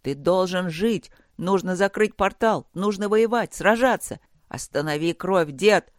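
mildly frantic plea; desperate urging. Acted. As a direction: pitch climbing, pleading exhortation. Grandson begs dying grandfather.

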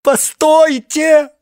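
slow, very high, loud wailing stop; panicked howl. A narrator's reading. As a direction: howl it in terror. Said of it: "взвыло яйцо Гансера до того панически".

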